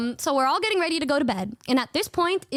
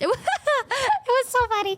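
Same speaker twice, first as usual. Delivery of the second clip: laughing through the words; high giggly laugh while talking; 11 semitones higher than usual. Real, not acted. Telling friends about a funny trip, laughing.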